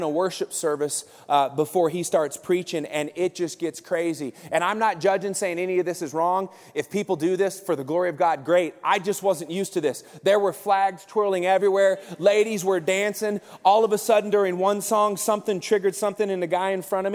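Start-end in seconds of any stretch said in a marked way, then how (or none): none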